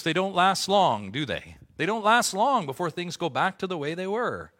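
loud, high, impassioned pulpit cry; full-force preaching. Acted. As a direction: drive it home like a revival preacher.

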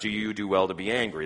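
rattled off quickly, broad and general; a quick, general ask; general question, quick. Shown as a demonstration. Preacher reading God's broad question to Jonah, quickly. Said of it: "You see the difference?".

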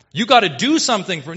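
fast, loud mock demand, cut short; mock bargaining worshipper. Preacher mimicking a worshipper's demand of God, mock insistence. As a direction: fire off a pushy imitation demand. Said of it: "You're like".

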